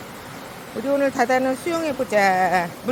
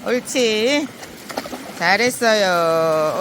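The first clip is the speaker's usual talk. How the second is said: slow drawn-out praise; squeaky praising a dog; 4 semitones lower, much slower than usual. Real, not acted. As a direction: stretch the praise out lovingly. Owner praising dog again.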